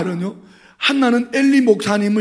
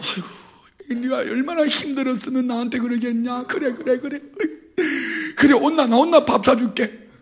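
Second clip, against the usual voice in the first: tender sympathy; 4 semitones higher, 3 dB quieter than usual. Pretend. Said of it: "이렇게 해야 되는데".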